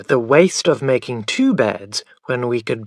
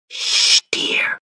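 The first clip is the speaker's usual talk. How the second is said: breathy hush with no voice; whispered hush. A narrator's reading. Mother hushing her son beside the sleeping father, whispered. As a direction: hush the child without waking anyone. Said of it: "she whispered".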